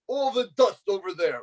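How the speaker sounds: high-pitched mock royal order; screaming at ants. Self-crowned king giving ants chores, mock yelling. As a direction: pretend to boss tiny subjects around. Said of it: "screaming at my ants".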